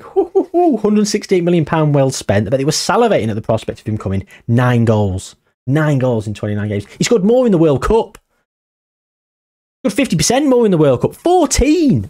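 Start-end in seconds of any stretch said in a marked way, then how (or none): 0.0-2.5 high delighted hooting, then a smug boast; mock gleeful hoots from a delighted club. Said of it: "I bet Liverpool were like". 11.2-12.1 high, disbelieving cry of the number; a real burst of disbelief; incredulous exclaim. Real, not acted. Incredulous at goal tally.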